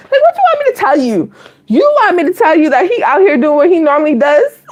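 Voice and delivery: laughing quote. Retold or imitated.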